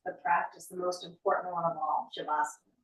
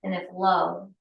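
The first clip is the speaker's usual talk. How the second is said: poem reading. Acted. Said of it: "And it goes".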